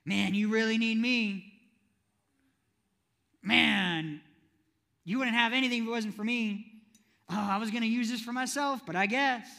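loud, guilt-tripping mock giver. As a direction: lay the guilt on thick. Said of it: "God loves a gaslighting giver".

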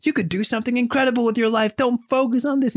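high-pitched, earnest acted pep talk; consoling. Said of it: "And, you know, he's consoling".

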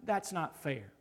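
building protest. Pretend.

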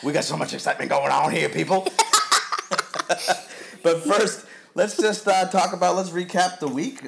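laughing. Real, not acted. Host laughing at his own line.

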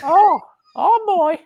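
put-on very high, slow, wailing "oh boy" like a worried Italian mother-in-law. Asked by his co-host, doing his Italian mother-in-law's high fretful voice. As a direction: pitch way up and stretch it out, mock dismay. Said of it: "can you say it in your Italian mother-in-law's voice?".

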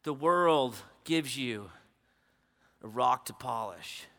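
low, soft, slow intimate delivery. Acted. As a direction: lean in and say it gently. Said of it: "repeated after the loud take".

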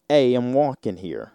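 put-on playful New York Italian-American accent. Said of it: "Especially that New York Italian".

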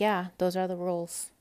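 imitating a matter-of-fact clerk. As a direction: state it plainly, as settled policy. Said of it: "just very matter of fact".

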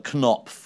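KNOPF with the K sounded before the N. Shown as a demonstration. Co-host showing how the publisher is pronounced, KNOPF with audible K. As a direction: say KNOPF as "kuh-nopf", pitched on the K-N. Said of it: "I believe is how it's pronounced".

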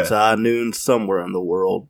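lightly voiced low cowboy; a hint of Western cowboy; McCree. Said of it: "he's like a cowboy type".

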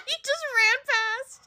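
high, drawn-out laughing cry. Real, not acted. Teasing the player over a miss, laughing. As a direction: blurt it out high through laughter.

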